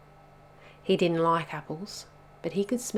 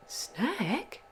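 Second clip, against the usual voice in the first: higher, swooping delighted question; eager exclamation; 6 semitones higher, 4 dB quieter than usual. A narrator's reading. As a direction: perk up at the mention of food. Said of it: "exclaimed Rollo".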